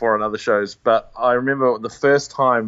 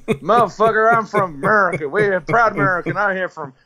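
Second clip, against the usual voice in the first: indignant, higher-pitched mock American; bad American accent; 6 semitones higher than usual. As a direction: imitate an outraged proud American, badly. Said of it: "I'm gonna do a bad American accent".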